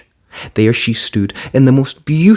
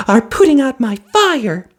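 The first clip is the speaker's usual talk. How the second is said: snapping fairy. A narrator's reading. Fiery fairy snapping at crying Cinderella. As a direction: bite the words off sharply. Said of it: "snapped the fairy".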